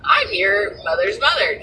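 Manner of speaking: mocking fake sweetness. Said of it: "trying to be like".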